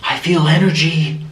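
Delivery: lightly acted, voiced ghost hunter; crazy ghost hunter. Mimicking the ghost hunter sensing energy, voiced and mildly dramatic. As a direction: sense a presence, mildly theatrical. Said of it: "She would just go crazy".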